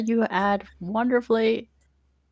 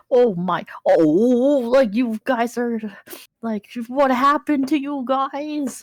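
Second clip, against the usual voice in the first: slow, raised-pitch fussing; Uncle Henry; 5 semitones higher, slower than usual. Acted. Uncle checking the party over, slow high-pitched concern. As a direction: draw the words out in worried dismay. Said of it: "he's kinda, like, looking you down".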